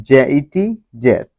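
জেইটি spelled slowly, then জেট with a short e. Shown as a demonstration. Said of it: "যেমন". (ধীরে বানান, তারপর জেট)

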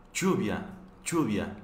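lluvia con ll fuerte, casi ch; sonido más fuerte. Shown as a demonstration. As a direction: di "lluvia" como "chubia". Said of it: "un poquito más fuerte que lluvia". (pronuncia "lluvia" con ll fuerte)

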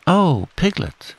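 high, drawn-out excited hail; high-pitched storybook excitement; excited Pooh. A narrator's reading. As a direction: burst in with exciting news. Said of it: "said Pooh excitedly".

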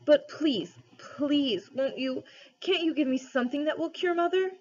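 put-on high, pleading boy near tears; tearful blurted plea. A narrator's reading. Digory begs the lion to cure Mother, tearfully blurting. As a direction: blurt it out with a lump in the throat. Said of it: "he blurted out".

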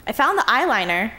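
half-listening younger sister, upbeat; little sister Lee, distracted.

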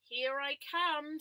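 loud, slow arrival; booming horse. Acted. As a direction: announce yourself like a big horse.

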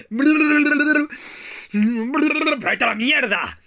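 high, loud yell telling him to get lost; shrieking pirate insult; furious pirate shout. Pretend. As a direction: scream the insult at the enemy pirate.

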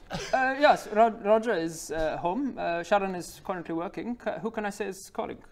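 high, polite, hesitant woman's voice; young Goliath woman. Acted. Young woman receives unexpected caller, high and polite. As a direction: answer the door in a high, courteous voice.

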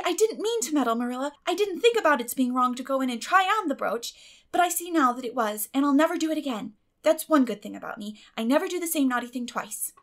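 eager pleading. A narrator's reading. Anne excusing herself to Marilla, high and eager. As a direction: talk fast to win her over.

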